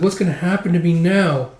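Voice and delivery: high put-on fretful voice; worried captive. Caged little prisoner wonders about his fate, fretting.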